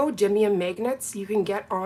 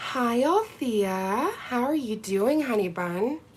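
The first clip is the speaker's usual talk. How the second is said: put-on sexy, sultry voice, slow; 2 semitones higher than usual.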